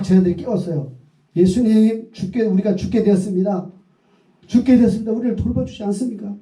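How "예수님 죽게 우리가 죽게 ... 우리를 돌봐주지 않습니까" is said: frantic, higher cry for help; urgent panic. Acted. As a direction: plead as if the boat is sinking. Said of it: "막 다급하게".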